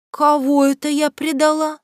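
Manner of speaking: high, loud demanding question; barely holding in rage; a girl confronting her friends angrily; loud, held-back fury. Acted. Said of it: "спросила я довольно громко".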